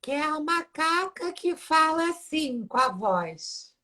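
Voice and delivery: high, squeaky monkey-lady voice; Alessandra the monkey voice. Shown as a demonstration. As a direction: pitch way up for a cartoon monkey. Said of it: "e agora tem a Alessandra".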